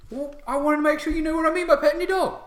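loud, very high, fast orc retort; bickering orc. Acted. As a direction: explain hotly as an orc soldier. Orc guards squabble over petting dog.

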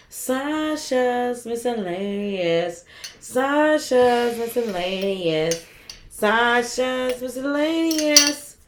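slow drawn-out announcer read; infomercial voice. Shown as a demonstration. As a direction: stretch it like a TV ad. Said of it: "That really sounds like an infomercial".

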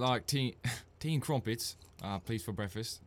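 put-on British accent. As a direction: order breakfast as a pretend Brit, chuckling. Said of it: "British accent. Best British accent".

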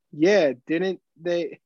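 slow, pointed sarcasm; drawn-out sarcastic retort. Retold or imitated. Friend needling the old heckler, slow sarcastic jab. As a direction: drag it out to needle him. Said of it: "My friend was, was like".

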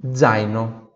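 Zaino with a voiced dz, dzaino; soft Italian Z. Shown as a demonstration. Teacher models Zaino for class, soft voiced dz. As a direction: start Zaino with a gentle dz buzz. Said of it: "com essa pronúncia doce".

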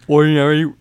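words through a yawn. Real, not acted. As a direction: say it while yawning. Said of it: "I'm so sorry I keep yawning".

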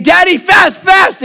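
high shrieking shout of "Daddy, fast!"; toddler shouting. Retold or imitated. Toddler son drags dad from the table, shouting. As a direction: yank dad up with the voice. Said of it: "the whole time he's saying".

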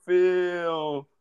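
Big E catchphrase. Retold or imitated. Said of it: "a Big E New Day intro".

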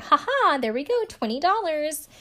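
high gloating ha ha; imitating the cop gloating over the twenty. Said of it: "in her talking head".

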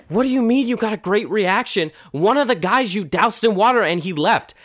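can't believe what he hears; incredulous. Retold or imitated. Shapiro protests to Clifton.

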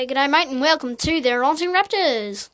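put-on Australian accent; lightly hammed Australian twang. Shown as a demonstration. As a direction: greet them with an attempted Aussie accent.

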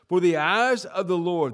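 For the eyes of the Lord boomed out loud; preacher booming the verse opening; loud emphatic reading. Real, not acted. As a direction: proclaim For the eyes of the Lord loudly. Preacher repeats scripture phrase.

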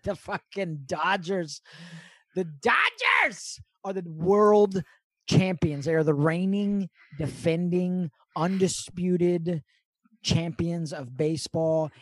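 slow, loud, drawn-out proclaiming; proud announcement. Real, not acted. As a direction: announce it like a ringside introduction. Hyping Dodgers championship.

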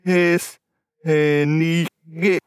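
reading text backwards word by word; slow halting backwards reading; backwards speech. Shown as a demonstration. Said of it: "du liest ihn rückwärts".

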